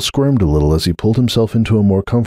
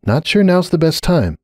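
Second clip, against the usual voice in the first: higher, uneasy; hesitant warning; nervous caution; 9 semitones higher than usual. Acted. Starlight nervous.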